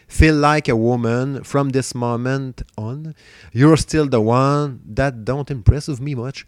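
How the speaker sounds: song titles in a careful, slow English accent; French speaker's slow, proud English accent. Shown as a demonstration. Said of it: "il a un super bon accent anglais".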